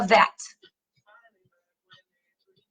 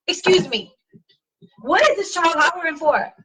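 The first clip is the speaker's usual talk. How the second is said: higher, sharp mock confrontation; confronting a parent; 4 semitones higher than usual. Speaker confronting a parent in a store, sharply indignant. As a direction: call the parent out in public. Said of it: "I'm like".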